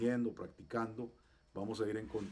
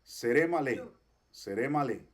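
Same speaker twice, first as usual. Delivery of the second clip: "seré malé" louder, evenly spelt out for repetition; say-with-me model; 5 dB louder than usual. Shown as a demonstration. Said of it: "Diga conmigo".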